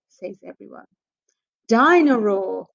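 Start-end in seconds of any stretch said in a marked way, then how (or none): 1.7-2.7 excited. Acted. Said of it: "says George excitedly".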